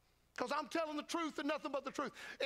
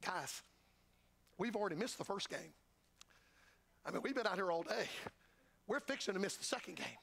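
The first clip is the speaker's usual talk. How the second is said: lower, grumbling disciple voice; disciple complaining; 6 semitones lower than usual. Retold or imitated. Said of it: "and one of them says".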